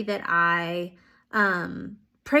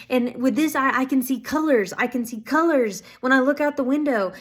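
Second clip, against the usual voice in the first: higher, eager imitation of joy; happy exclamation; 4 semitones higher, 3 dB louder than usual. Woman imitated telling instructor about colors, happy exclamation. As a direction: retell her delight with a lifted voice. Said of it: "like, screaming and so happy".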